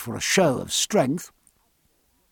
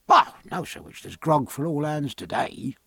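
deferential steward. Acted. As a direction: answer the captain as his steward.

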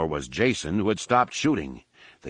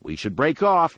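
higher, urgent pilot voice; Lando's voice; 7 semitones higher, 3 dB louder than usual. A narrator's reading. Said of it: "Lando remarked".

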